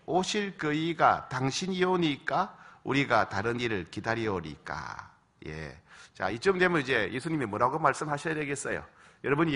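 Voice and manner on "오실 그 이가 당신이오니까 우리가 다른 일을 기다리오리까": scripture reading. Shown as a demonstration. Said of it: "시작".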